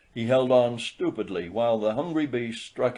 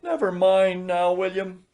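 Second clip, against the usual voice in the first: gentle; 8 semitones higher, 3 dB louder than usual. A narrator's reading. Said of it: "she said gently".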